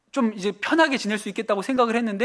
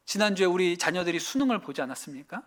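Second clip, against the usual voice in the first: normal talking voice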